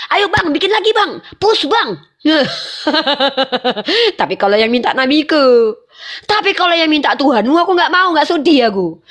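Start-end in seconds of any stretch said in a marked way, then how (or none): 0.1-1.9 eager urging. Retold or imitated. Urging husband to make more. 2.2-5.7 laughing as you speak. Real, not acted. Laughing at own story.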